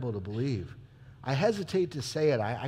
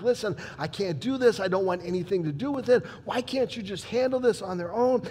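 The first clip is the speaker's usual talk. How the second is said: pitched up, pleading, hurried; exasperated protest; 4 semitones higher than usual. Acted. Pilate protesting to the crowd, pitched-up exasperation. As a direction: push back, wanting no part of it.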